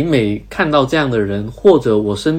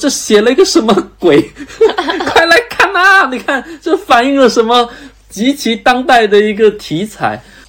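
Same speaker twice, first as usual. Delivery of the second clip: mock, very high-pitched, yelled vendor-style hawking rant; 12 semitones higher, 4 dB louder than usual. Speaker mocking people who write only to be seen, retelling someone's shouting. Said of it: "大喊大叫说".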